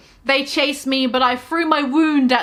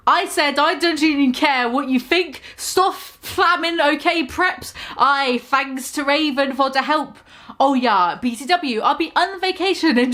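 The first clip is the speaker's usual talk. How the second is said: a raised, airy put-on teen author voice, laughing through it; mocking author voice; 4 semitones higher than usual. Reader mocks the fanfic author's note in a put-on teen voice. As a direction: send up the fanfic author with a lifted, giggly voice.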